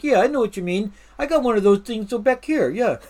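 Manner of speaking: New York accent. Shown as a demonstration. Picking up the locals' talk, in a New York accent. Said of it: "you start talking like".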